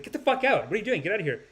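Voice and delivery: lightly acted outrage; retold alarmed protest. Woman wakes to intruder, retold.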